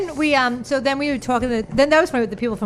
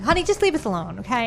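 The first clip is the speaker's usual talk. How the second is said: imitating the drag queen. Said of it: "I'll do it".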